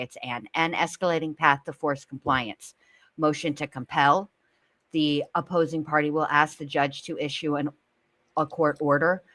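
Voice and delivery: a hint of a lawyer reading formally; professional lawyer voice. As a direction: read like a lawyer, lightly put on. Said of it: "read it in my professional lawyer".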